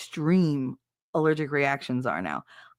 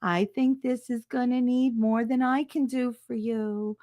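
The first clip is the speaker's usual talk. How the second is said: hushed whisper, bad news gently; 5 semitones higher than usual. Nurse quietly breaking bad news.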